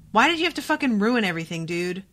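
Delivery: fast fed-up scolding of a character; angry rant. Real, not acted. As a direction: rattle off your frustration at him. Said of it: "I'm so mad".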